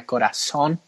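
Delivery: corazón said the Spanish way, with a tapped r and the stress on the last syllable; Spanish pronunciation. Shown as a demonstration. Podcast host drops a Spanish word for flair, saying corazón in Spanish. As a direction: say corazón like a Spanish speaker would, in the middle of English chat. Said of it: "I had to say it in Spanish".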